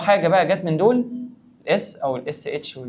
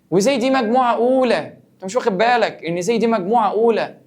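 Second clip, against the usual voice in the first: teasing scold; 7 semitones higher, 5 dB louder than usual. Acted. Teacher teasingly scolds the student.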